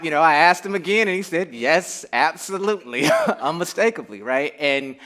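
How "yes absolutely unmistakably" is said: high, loud imitated certainty; amused retelling of total conviction; emphatic quoted confirmation. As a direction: mimic an adamant yes, laughing through it. Retold emphatic answer when asked again.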